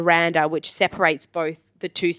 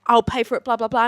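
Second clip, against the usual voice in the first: lightly imitated male traveler; a hint of an apologetic guy, fading into blahs; 4 semitones higher, faster than usual. Rugby guy worried he got the tour leader in trouble, light male voice.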